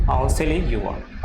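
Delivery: each word drawn out slowly for learners. Shown as a demonstration. Teacher to students learning English, very slow model sentence. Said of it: "आसान है, बहुत आसान है करना".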